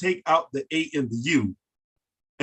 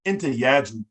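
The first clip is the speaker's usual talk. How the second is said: "Enter Yaju" with a falling, even beat; "Enter Yaju" said in its proper rhythm. Shown as a demonstration. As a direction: stress "Enter" and let "Yaju" fall. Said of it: "The proper Afe would be".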